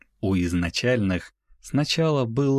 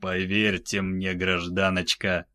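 тихий безжизненный бас; говори холодно, без всякого чувства; мёртвый ледяной голос. Acted. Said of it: "мёртвым, криогенным голосом произносил Дюк". (мёртвым криогенным голосом)

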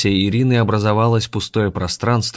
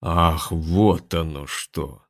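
brute voice; 2 semitones lower, much slower than usual. Acted. Gromila voiced, slow.

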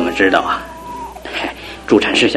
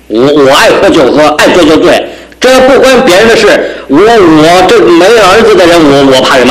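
put-on drunken outburst; 3 semitones higher than usual. Drunk husband shouts back.

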